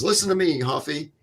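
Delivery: mock-shout the order; retold yell. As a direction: sergeant yelling at the hurt soldier, imitated. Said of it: "he yells at him".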